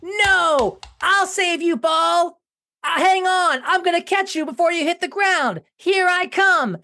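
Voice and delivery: high, urgent hero cries; excited heroic shouting. Pretend. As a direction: rush in to save the day. Running to catch ball.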